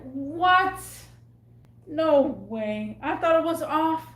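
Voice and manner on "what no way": shocked disbelief. Retold or imitated. Told she must work today.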